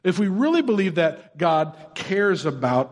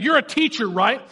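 patronizing; 2 semitones higher than usual. Retold or imitated. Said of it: "This guy is being patronizing".

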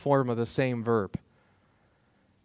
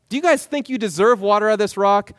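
fast, raised, needling "guys"; mocking rhetorical question; 4 semitones higher, 4 dB louder, faster than usual. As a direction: Moses needling the people. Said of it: "rhetorical question".

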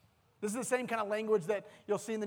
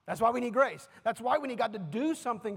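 louder, pitch lifted, driving it home; louder restatement; 5 dB louder than usual. Real, not acted. Preacher to congregation, repeating the point with louder force. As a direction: proclaim it to the room.

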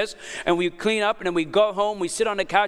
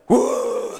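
mock retching; 5 dB louder than usual. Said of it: "And he's like".

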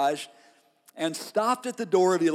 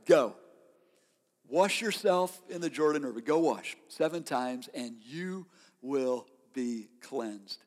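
gentle prophet word; 4 semitones lower, 4 dB quieter than usual. Acted. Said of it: "A clear word from God".

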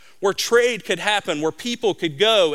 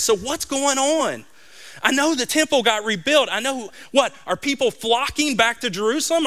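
higher, hopeful, questions tumbling out; eager questions; 5 semitones higher than usual. Retold or imitated. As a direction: Nehemiah hoping for good news from home. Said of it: "He's asking his friends".

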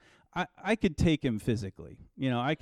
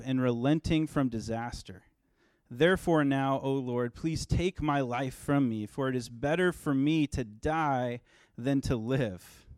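scripture reading. Acted. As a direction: read the verses aloud to the congregation, measured. Pastor reads scripture passage.

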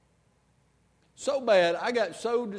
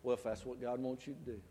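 softer, lower calm reply; 4 semitones lower, 8 dB quieter than usual. Retold or imitated. Wife calmly answering her ranting husband. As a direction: answer quietly, unbothered. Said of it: "she just looked up and she said".

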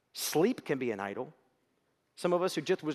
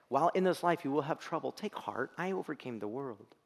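voice of God. Acted. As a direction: speak like a loving father comforting his child. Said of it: "it'll sound like this".

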